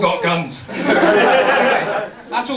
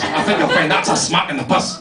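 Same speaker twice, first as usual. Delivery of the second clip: mocking echo in a Dundee accent; Dundee retort; 3 semitones lower than usual. Wee boy retorting after a smack, mocking Dundee accent. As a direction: throw the correction back in Dundee patois. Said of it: "Smack me across the face".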